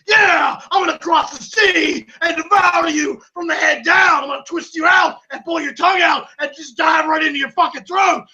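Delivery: menacing threat. Acted. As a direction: threaten to devour him. Acted threat to devour rival.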